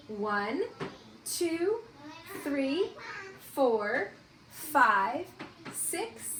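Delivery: slow count, one number at a time; counting aloud. Shown as a demonstration. Teacher counting the days until Halloween with her class, slow count. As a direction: count each day for the children to follow. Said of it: "So let's count".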